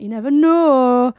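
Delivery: put-on slow drawn-out northern English accent. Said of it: "You said that in a very northern accent".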